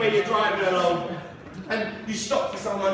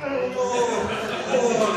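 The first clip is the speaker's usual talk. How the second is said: strained groan; much slower than usual. Acted. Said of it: "just trying to get on the seat".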